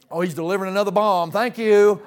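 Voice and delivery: quick wry mock thanks; mock homeowner. Homeowner greeting the FedEx man, mock wary thanks. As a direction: toss off the thanks dryly. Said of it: "I look like the FedEx man".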